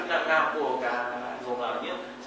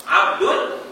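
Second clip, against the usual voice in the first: quiz prompt; 7 semitones higher, much slower than usual. Shown as a demonstration. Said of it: "orang yang kaya dipanggil apa".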